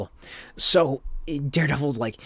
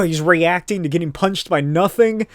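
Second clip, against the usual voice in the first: ordinary talk, nothing marked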